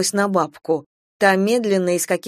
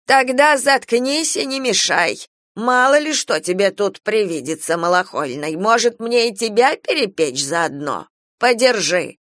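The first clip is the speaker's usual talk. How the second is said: bossy scolding; 3 semitones higher than usual. Acted. Old woman silencing Kira, scolding. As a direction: put her firmly in her place.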